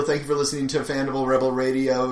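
rushed, flat run-through; fast spiel. Shown as a demonstration. Host demanding the spiel be said, fast offhand. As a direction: rattle off the sign-off quickly. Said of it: "please say the spiel".

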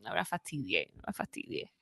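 low, breathy whispered movie-trailer tagline; hushed trailer voice. Retold or imitated.

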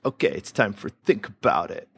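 light American accent, imitating the host's intro; a friendly impression of an American announcing the segment; mock American accent. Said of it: "pretty good American accent".

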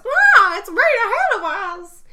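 high, loud urgent shout. Retold or imitated. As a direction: yell it out in alarm. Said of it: "Bailey raises his voice".

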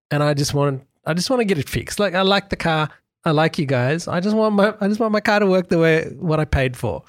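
rising, pleading frustration; retold plea to the top manager, exasperated and climbing in pitch.

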